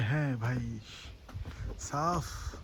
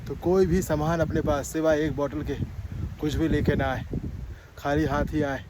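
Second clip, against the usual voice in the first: loud, raised voice outdoors; shouting over wind; 5 dB louder than usual. Real, not acted. Shouting on windy hilltop.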